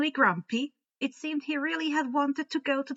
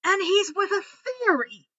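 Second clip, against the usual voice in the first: high, half-questioning; almost a question; 9 semitones higher, 5 dB louder than usual. A narrator's reading. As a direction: let it lift into a question. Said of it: "as an almost question".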